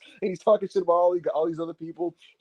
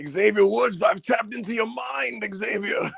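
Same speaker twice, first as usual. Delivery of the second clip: creepy Bray Wyatt; 3 semitones higher, slower than usual. Retold or imitated. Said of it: "Bray would be like".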